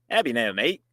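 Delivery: tentative attempt at an Australian accent; amateur Aussie-accent imitation. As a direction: try a rough Australian or British accent. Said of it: "I don't know if he's Australian".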